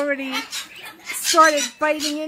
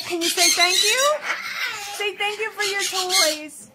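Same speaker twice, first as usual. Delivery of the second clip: higher, cooing ask to the parrot; coaxing bird talk; 4 semitones higher than usual. Real, not acted. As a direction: coax the bird to speak, sweetly.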